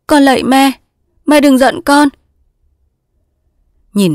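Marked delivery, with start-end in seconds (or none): 0.1-2.1 high, loud anguished plea; begging. Acted. Daughter begging her mother, anguished. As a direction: beg desperately.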